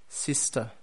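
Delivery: "sister" the British way, silent final R, falling; British demo of "sister" with a closing fall; British accent. Shown as a demonstration. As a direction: model British "sister", ending in an open uh. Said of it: "and then in the British".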